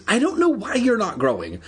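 high-pitched, exasperated call upward; shouting. A narrator's reading. Andy answers giant Evan from far below, shouting. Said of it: "she shouted".

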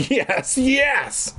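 high-pitched, gleeful repeated yes; happy cheer. A narrator's reading. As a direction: whoop it out in delight. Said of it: "Marty cheered happily".

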